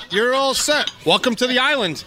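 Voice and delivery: high, hushed mock-deferential host; mock servant to Thurston Howell. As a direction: fawn over the rich guest like a lightly voiced island servant. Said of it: "Why you call me Thurston Howell?".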